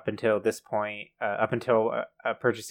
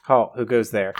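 stern sentry challenge; 6 dB louder than usual. Acted. Playing a guard in a bit.

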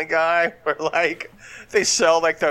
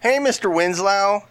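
high-pitched drawn-out character voice; comic impression; 6 semitones higher, 3 dB louder, slower than usual. Joking impressionist calls to Mister Winslow, hammed-up high voice. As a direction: pester in a slow, high cartoonish voice. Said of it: "here's my black guy impression".

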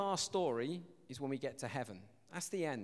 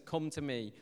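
gentle invitation; 4 dB quieter than usual. Acted. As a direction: invite softly, as Jesus to the weary. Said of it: "Jesus says".

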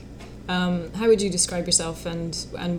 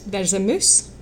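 Scottish vowel in moose, clipped; teaching a Scottish phrase; Scottish accent; slower than usual. Shown as a demonstration. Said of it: "teach you your first Scottish accent".

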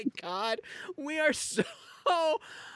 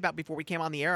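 normal talking voice

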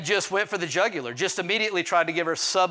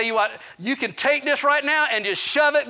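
indignant telling-off; 6 semitones higher than usual. Retold or imitated. Husband telling off his wife's evaluator, indignant. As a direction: let rip, raised and heated.

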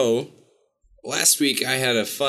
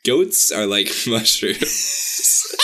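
laughing; much slower than usual. Real, not acted. Laughs through attempt.

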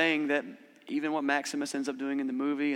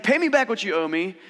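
louder, higher mock throttling demand; preacher acting out the merciless servant's louder demand; imitating an angry demand; 5 semitones higher, 5 dB louder than usual. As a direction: play the servant choking a debtor, loudly. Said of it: "Is like".

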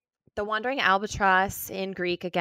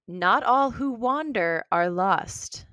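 slow recital of a quote; quote read slowly; 4 semitones higher, slower than usual. Acted. Host reading the Tolkien quote as a hint, slow and weighty. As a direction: read "Not all who wander are lost" slowly, with weight on "wander". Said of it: "a quote that was said by J R R Tolkien".

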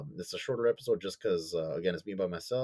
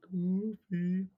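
high call across a room; 10 semitones higher than usual. Real, not acted. Calling an absent cohost.

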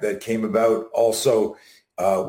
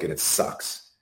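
whispered aside; 6 semitones lower, 7 dB quieter, slower than usual. Real, not acted. Fear described, voice drops.

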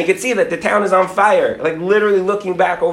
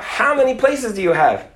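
raised-pitch mock call; acted shout without much volume; screamed question; 5 semitones higher than usual. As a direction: call it up to the wagon, high. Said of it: "he hears his friend scream out".

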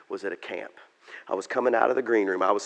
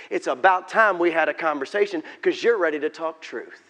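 raised, insistent telling-off; mildly exasperated acted rebuke; scolding; 6 semitones higher, 6 dB louder than usual. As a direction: build louder as the list of faults grows. God scolds David in acted dialogue.

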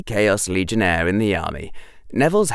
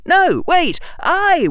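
high protesting cry; 4 dB louder, slower than usual. A narrator's reading. Soldier claiming credit, high protesting cry. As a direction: squeal it out in protest.

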